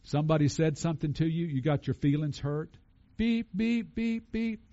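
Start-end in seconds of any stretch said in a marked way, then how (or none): 3.2-4.6 imitated beeper. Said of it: "Old creature".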